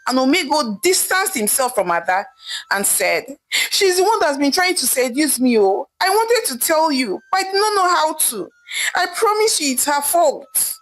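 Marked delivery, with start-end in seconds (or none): 3.5-10.8 higher-pitched desperate protest, breaking into crying; blurting his lie in a high panicked cry; screamed accusation. A narrator's reading. Husband caught by his wife, screaming to shift the blame. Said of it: "Omego screamed".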